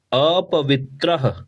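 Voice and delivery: अपवित्रः slowly, ending on a breathy h; clear final h. Shown as a demonstration. Teacher shows the visarga on अपवित्रः. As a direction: let अपवित्रः end with an audible ह. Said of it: "ह बोलना है".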